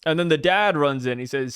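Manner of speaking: ordinary talk, nothing marked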